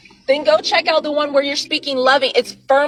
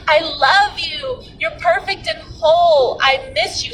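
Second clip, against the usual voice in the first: higher, slow and tender declarations; loving affirmation; 6 semitones higher than usual. Shown as a demonstration. Speaking life into the second bottle, in a higher, slow, tender voice. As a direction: pour love into the bottle like to a dear one. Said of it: "Speak life into that bottle".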